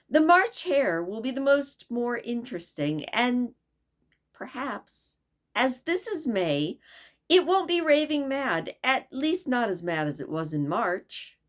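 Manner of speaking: put-on light, high girlish voice, politely asking; a young girl asking the way, eager; lightly voiced curious girl; Alice's voice. Alice talking to herself.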